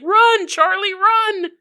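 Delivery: very high, loud cheer; hospital crowd cheering the doctor on; cheering high call. Acted. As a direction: urge him on like a crowd. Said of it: "everyone's like".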